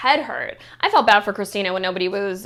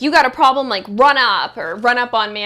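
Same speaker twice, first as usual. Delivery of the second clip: loud challenge; 6 dB louder than usual. Retold or imitated. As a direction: call them out loudly. Hanan's retold challenge.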